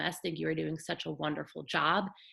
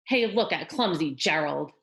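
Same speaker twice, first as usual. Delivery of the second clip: sneering; 6 dB louder than usual. Acted. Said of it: "the animals all sneered".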